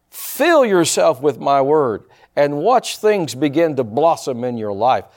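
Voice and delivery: measured, emphatic phrases with pauses; prophetic declaration. Real, not acted. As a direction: proclaim it solemnly as the word of the Lord. Delivers a prophecy as God.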